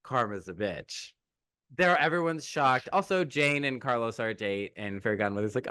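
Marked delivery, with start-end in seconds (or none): 0.0-1.1 imitating a young pop star. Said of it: "as the pop star herself would say".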